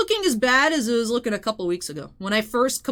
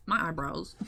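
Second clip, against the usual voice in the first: whisper; 7 semitones lower, 8 dB quieter than usual. Retold or imitated. Whispered self-quote.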